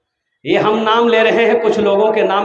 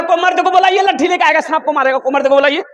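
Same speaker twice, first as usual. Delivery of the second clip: mocking timid youth; 7 semitones higher, faster than usual. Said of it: "ये भी बोल रहा".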